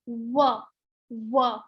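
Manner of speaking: "W" with lips rounded, no teeth. Shown as a demonstration. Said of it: "you round your lips when you say it".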